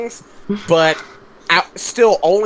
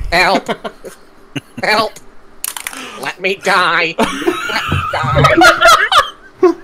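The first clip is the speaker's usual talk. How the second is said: sheep voice cry; 4 semitones higher, much slower than usual. Acted. Sheep Ozzy cries.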